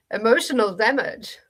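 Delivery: put-on a light, half-done Steven He meme accent; lightly imitating the Steven He meme accent, punchy. Streamer quoting the meme to chat in a light Steven He meme accent. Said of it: "I did not do that accent or the, the inflection correctly".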